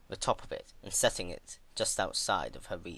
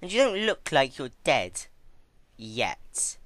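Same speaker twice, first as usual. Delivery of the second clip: put-on higher, louder, teasing young mare; Twilight's character voice; 6 semitones higher, 8 dB louder than usual. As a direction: tease the patient with mock concern.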